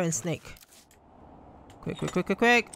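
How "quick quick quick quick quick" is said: frantic. Real, not acted. Solving puzzle under chase.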